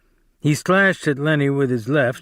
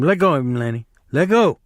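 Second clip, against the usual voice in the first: urgent shout; 2 semitones higher, faster than usual. Acted. George running to stop Lennie, urgent raised command. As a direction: snap an order to stop.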